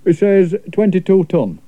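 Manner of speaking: lightly voiced lad passing on the whale's words; Ted translating. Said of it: "said Ted".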